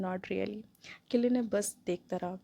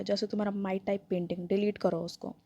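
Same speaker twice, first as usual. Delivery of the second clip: cold mocking. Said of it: "cold मॉकिंग tone में बोला".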